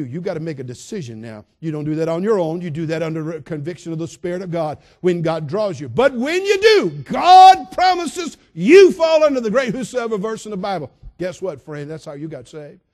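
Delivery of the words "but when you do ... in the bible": high, loud preaching shout; fervent shout. Acted. Preacher promising listeners the whosoever verse, full-force shout.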